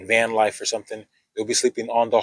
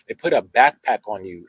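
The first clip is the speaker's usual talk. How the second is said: backpack leaned on a little harder; stress on backpack. Shown as a demonstration. Telling listeners about the pack test, with backpack stressed. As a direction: give backpack a firm push. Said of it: "emphasis on backpack".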